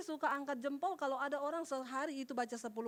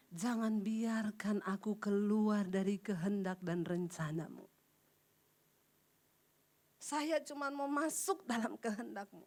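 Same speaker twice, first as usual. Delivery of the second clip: whispered prayer; 6 semitones lower than usual. Retold or imitated. Retold prayer to God.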